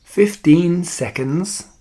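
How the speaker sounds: theatrical, drawn-out call; crying witch. A narrator's reading. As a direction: stretch each word with relish. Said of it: "cried the Grand High Witch".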